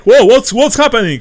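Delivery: loud, high startled whoa; startled guards. Acted. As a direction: jump back in alarm at the shout. Startled inn guards react.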